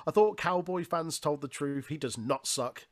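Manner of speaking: slightly hammed-up commentary call; Pat. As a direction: imitate a commentator making an emphatic point. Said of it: "Pat on commentary says".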